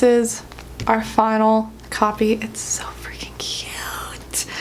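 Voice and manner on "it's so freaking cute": slow, soft gushing whisper. Real, not acted. Author admiring her book's pages, slow awed whisper. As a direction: breathe it out in awe. Gushing over the book quietly.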